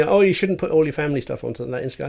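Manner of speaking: quick mock nagging tone; nagging advice. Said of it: "people keep telling me".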